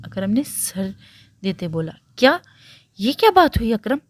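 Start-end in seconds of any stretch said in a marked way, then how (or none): 2.2-4.0 higher, louder troubled objection; distressed protest. A narrator's reading. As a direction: protest in mild alarm. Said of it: "परेशान होते बोला".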